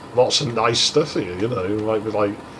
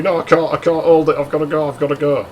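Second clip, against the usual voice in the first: higher-pitched mock pleading whine; retold whining; 4 semitones higher, faster than usual. Girl who can't hold it, whining in mock desperation. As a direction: imitate desperate, repetitive whining. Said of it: "before she starts whining at me".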